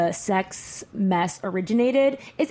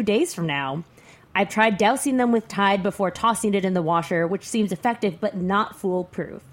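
lightly voiced smug guy; a hint of a haughty dude reading his letter; arrogant male voice. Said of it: "I'll read it in the voice of an arrogant male".

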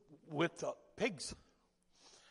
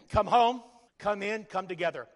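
called out; 6 dB louder than usual. Acted. Closing refrain called out.

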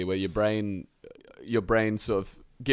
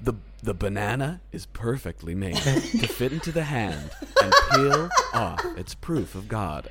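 mocking laughing quote. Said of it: "where they're like".

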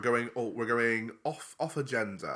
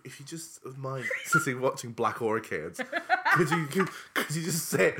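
pleading while laughing; laughing mock plea. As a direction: beg politely, cracking up. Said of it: "Can you imagine being like".

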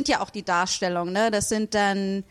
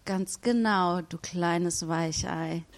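slow mocking taunt; 3 semitones lower, 3 dB quieter, much slower than usual. Professor taunts timid subject.

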